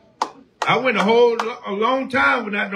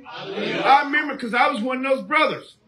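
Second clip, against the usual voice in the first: preaching shout; 5 semitones higher than usual. Real, not acted. Preacher calling out testimony.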